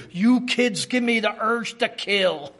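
lightly imitated Pennsylvania Dutch accent. Mother-in-law to the kids, mock-menacing Pennsylvania Dutch accent. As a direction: scold with a hint of Pennsylvania Dutch. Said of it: "in her Pennsylvania Dutch accent would say".

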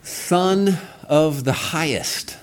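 "Son of the Highest" drawn out slowly, leaning on "Son"; slow emphatic title. Shown as a demonstration. Pastor to congregation, slowly lifting "Son of the Highest". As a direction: savor "Son" with a lifted pitch. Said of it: "repeats the title slowly".

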